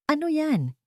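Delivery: high, irritated snap of a question; annoyed. A narrator's reading. Leticia annoyed at the maid for disturbing her, irritated. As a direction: sound bothered at being interrupted. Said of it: "naiinis sa pagkaabala".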